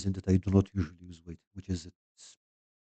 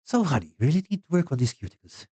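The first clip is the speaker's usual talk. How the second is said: high, sing-song mock New York manicurist; first go at a New York accent, hammed-up; 8 semitones higher, 3 dB louder than usual. Manicurist scolding Carl about his cuticles, high mock New York accent. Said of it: "yeah, let's try".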